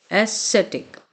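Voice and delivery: ascetic repeated as "a-SET-ik"; pronunciation demo. Shown as a demonstration. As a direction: model ascetic on its own for learners to copy. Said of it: "बार बार pronounce करना है". (ascetic का साफ़ उच्चारण, दोबारा)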